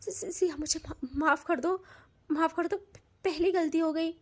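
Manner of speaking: stammering, broken pleading; begging forgiveness. Acted. Tanu at Siya's feet begging forgiveness, broken stammering sobs. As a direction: beg through sobs, words breaking apart. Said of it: "गिड़गिड़ाने लगती है".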